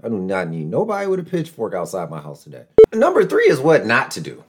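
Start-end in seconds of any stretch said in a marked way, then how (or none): 0.0-2.7 calming down. Real, not acted. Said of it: "Let me calm down".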